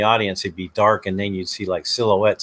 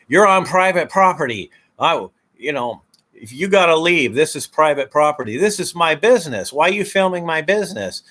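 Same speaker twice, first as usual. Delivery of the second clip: irritated owner; 5 semitones higher than usual. Retold or imitated. An owner telling the cameraman to leave, scolding. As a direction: tell the stranger to leave your property. Owner ordering auditors off property.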